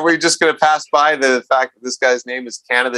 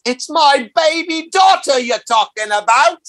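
dramatic movie shout; 11 semitones higher, slower than usual. Retold or imitated. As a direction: belt it out like a movie courtroom scene. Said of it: "she says".

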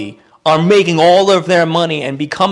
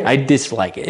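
lightly haughty, as if it's beneath you; composed and faintly superior; elegant disdain. Shown as a demonstration. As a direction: say it with refined, understated distaste. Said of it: "elegant, like it's beneath me".

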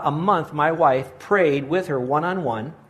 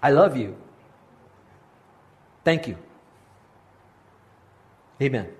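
halting, nervous prayer with long pauses; shaky voice. Retold or imitated. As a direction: stammer out a first prayer, scared and unsure. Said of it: "with a shaky voice".

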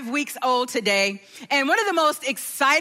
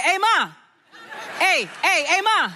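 sons calling out; 5 semitones higher than usual. Retold or imitated. Boys calling for their mom, light call. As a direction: call across the house for mom. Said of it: "they'd be like".

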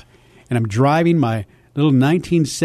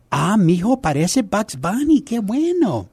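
higher-pitched imitation of mom praising her son; doting mom; 6 semitones higher than usual. Mom admiring her boy's cartoon voice, high doting imitation. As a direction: coo proudly in Spanish as the mother. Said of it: "my mom, God bless her, she says".

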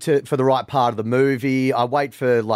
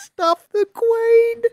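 mock pompous voice; 3 dB louder, much slower than usual. Echoing in mock voice.

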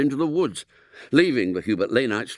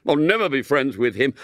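defiant refusal; 3 semitones higher, 3 dB louder than usual. Acted. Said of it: "exploded William".

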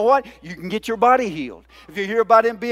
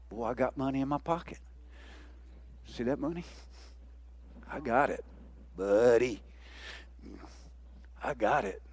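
mock boast; 10 semitones lower, 17 dB quieter than usual. Starving man boasting of money.

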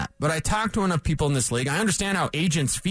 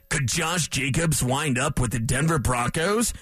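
big voice impression; 4 semitones lower than usual. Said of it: "That was my big voice impression".

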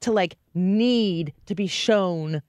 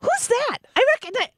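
put-on old lady voice; 12 semitones higher than usual. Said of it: "Jay-Z looking like an old lady grandma".

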